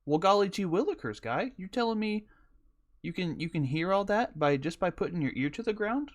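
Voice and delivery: put-on high, lilting old-time cowboy. Cowboy checks on a man lying in the road, high folksy voice. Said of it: "you know how cowboys used to talk".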